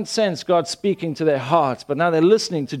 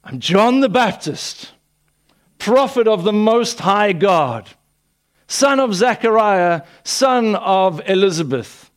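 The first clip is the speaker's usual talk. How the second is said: high, loud, slow heralding of titles; grand self-proclamation; 7 semitones higher, 6 dB louder than usual. Retold or imitated. John standing up announcing his titles, hammed-up grand proclamation. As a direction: announce yourself like a mock-pompous prophet on a rock. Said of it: "John doesn't stand up and say".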